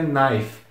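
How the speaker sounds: knife ending on the F, "naif"; silent final E. Shown as a demonstration. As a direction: say knife with no K and no vowel after the F. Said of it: "com esse E sendo bem mudo".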